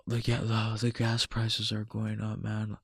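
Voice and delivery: soft, resigned grumble, imitated; mock complaining. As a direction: quietly mimic someone griping. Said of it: "bitching, moaning, and complaining like".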